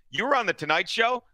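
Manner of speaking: mildly mocking question with a rise at the end; mock disbelief. Needling a boastful guest, mock disbelief. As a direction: needle him with fake surprise. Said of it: "I would interrupt him and say".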